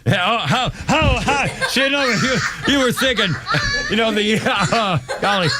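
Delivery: high, laughing disbelief. Real, not acted. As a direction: laugh while asking how. Laughing at the joke.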